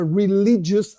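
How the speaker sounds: "religious" drawn out with emphasis; stress on religious. Real, not acted. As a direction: lean deliberately on the word "religious". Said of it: "I stress this word so much".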